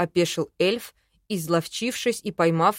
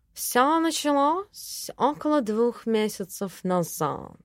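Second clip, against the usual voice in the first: slowly; 3 semitones higher, slower than usual. Acted. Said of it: "медленно проговорил Филипп".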